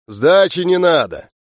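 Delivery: grand, lordly offhand tone. Acted. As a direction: brush it off like a big spender. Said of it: "вальяжно сказал".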